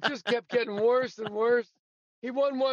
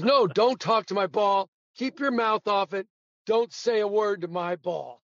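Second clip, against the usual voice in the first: stern insistence. Retold or imitated. Tommy scolding caddy, insistent.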